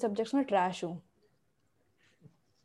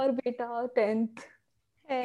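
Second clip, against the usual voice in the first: nosy neighbor aunty; 2 semitones higher, slower than usual. Pretend. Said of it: "पड़ोस वाली aunty की आवाज में".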